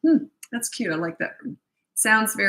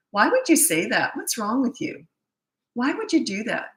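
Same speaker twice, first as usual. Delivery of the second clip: mock berating; 4 semitones higher than usual. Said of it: "It's like saying".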